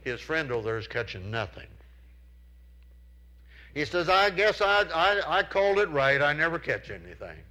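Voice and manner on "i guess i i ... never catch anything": raised pitch, louder call across the water; calling across the pond. Retold or imitated. Friend calls across the pond to Charles, loud and gloomy.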